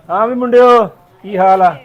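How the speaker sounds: loud hail to the lads; calling out. Acted. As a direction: greet your gang across the way. Calling out to his gang. (ਮੁੰਡਿਆਂ ਨੂੰ ਉੱਚੀ ਹਾਕ)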